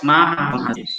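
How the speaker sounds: "Ma, ha, lom, ha, ze" split into separate syllables. Shown as a demonstration. Teacher sounding out the Hebrew word syllable by syllable. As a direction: sound out each syllable apart. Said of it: "Baca lagi".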